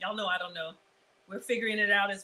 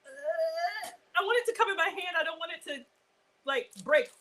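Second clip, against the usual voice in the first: high, fast, near-crying worry; nervous; 6 semitones higher than usual. Real, not acted. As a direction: fret over the loaf breaking. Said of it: "I'm nervous, y'all".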